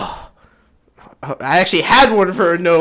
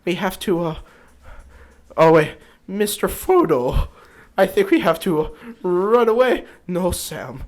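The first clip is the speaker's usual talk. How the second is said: hesitant, lightly voiced nervous halfling. Shown as a demonstration. Player as a halfling wanting to run away, mildly nervous. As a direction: stumble mildly through it as a worried halfling. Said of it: "Give me, like, a nervous halfling".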